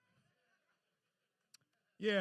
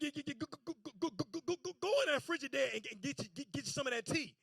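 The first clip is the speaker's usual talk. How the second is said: soft repeated stammer; stuttering granddaddy; 5 dB quieter, faster than usual. Retold or imitated. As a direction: stammer softly and fast.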